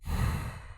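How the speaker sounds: a short huff through the nose; breath out through the nose. A narrator's reading. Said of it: "I breathe out through my nose".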